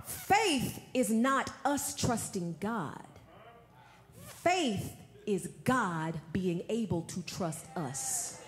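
slow and soft, each word weighed; hushed, deliberate restatement. Acted. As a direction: let it sink in slowly. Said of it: "I'm gonna say that again".

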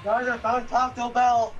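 excited announcement. Real, not acted.

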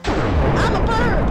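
slow drawn-out gleeful cry; scared giddy laughing. Real, not acted. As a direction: stretch it out in delight. Delighted at flying power.

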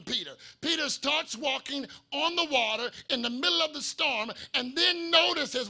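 emphatic, driving preacher delivery; preaching. Acted. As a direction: preach it out with rising force. Preaches at full force.

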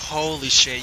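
loud amazed. Real, not acted. Reacting to channel blowing up.

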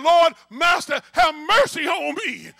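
a hammed-up anguished plea; pleading prayer. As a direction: beg the Lord, voice thrown high. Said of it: "I'm saying".

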